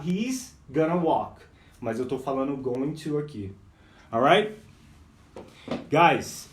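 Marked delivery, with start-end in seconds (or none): 0.0-1.4 "He's gonna walk" drawn out slowly; slow teaching model; slow demo. Shown as a demonstration. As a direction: show the contraction slowly. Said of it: "eu falo".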